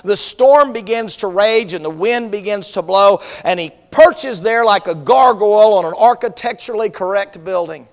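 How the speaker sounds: vivid, emphatic preacher's storytelling; dramatic sermon storytelling. Acted. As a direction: paint the storm for the congregation.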